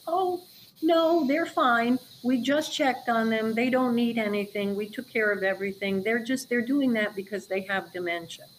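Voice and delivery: lightly mocking a dismissive care worker; dismissive staff. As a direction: wave the worry away like a busy aide. Staff dismissing resident's calls.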